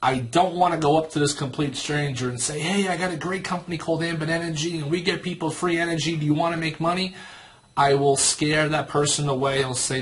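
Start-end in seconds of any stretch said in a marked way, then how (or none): 2.6-7.2 lightly mocked pushy pitch, higher and quick; a hint of an over-eager sales pitch; annoying salesperson. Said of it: "sound like an annoying salesperson".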